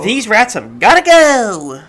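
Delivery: loud, high yell with a drawn-out end; mock outcry. Player yelling about rats in a game, mock outcry. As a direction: holler it slowly, stretching the last word.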